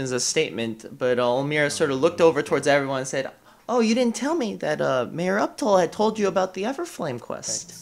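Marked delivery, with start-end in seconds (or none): 3.7-7.7 a lightly voiced airy, ditzy woman, a bit higher. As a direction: play her as a dreamy, scatterbrained townswoman.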